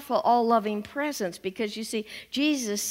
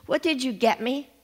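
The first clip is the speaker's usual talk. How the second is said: lightly voiced boy asking with a laugh; a small child fishing for a present; Johnny grinning at the minister, cheeky child voice; cheeky little boy; 3 semitones higher than usual. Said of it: "he says".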